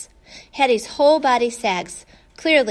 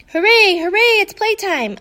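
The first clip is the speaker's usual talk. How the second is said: high, loud, bouncing with joy; higher and louder overjoyed puppy cheer; excited bark; 9 semitones higher, 6 dB louder than usual. A narrator's reading. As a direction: yelp it out like a thrilled puppy. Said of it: "I bark, jumping and leaping".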